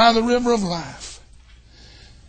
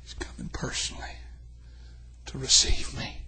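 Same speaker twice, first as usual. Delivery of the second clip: whisper; 6 semitones lower, 8 dB quieter than usual. Real, not acted. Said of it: "whispered after loud line".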